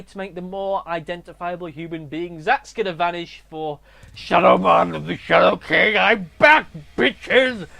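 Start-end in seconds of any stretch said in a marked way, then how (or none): 4.1-7.7 loud villain's triumphant return; big mock-evil proclamation; Shadow King. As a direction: announce yourself as a gloating villain, laughing after.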